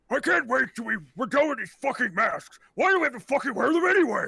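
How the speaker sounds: put-on old man's indignant complaining; cranky old man. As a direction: grouse like a fed-up ninety-year-old. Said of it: "he looks about ninety years old".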